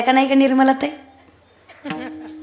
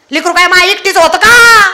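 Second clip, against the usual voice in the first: higher, louder crying protest; tearful complaint; 8 semitones higher, 7 dB louder than usual. Acted. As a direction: complain through tears. (रडवेली तक्रार)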